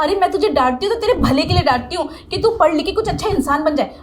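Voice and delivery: indignant, emphatic tirade; heated telling-off; angry berating. Acted. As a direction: lay into him with disgusted reproach. Teacher berates student at length.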